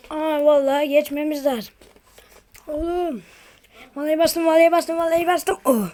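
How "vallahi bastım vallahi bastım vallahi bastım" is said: excited rush. Real, not acted. Excited rushing on plate.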